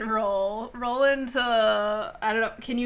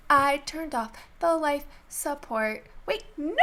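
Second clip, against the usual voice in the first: gloating villain; 5 semitones higher than usual. Acted. Gloating villain after maniacal laugh.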